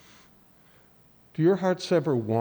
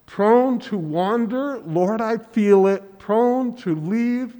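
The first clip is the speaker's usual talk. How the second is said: slow, raised hymn line; heartfelt hymn recitation; 6 semitones higher, 5 dB louder, slower than usual. Acted. Preacher quoting a favourite hymn to the congregation, slow and heartfelt. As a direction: recite it slowly, lifting the voice.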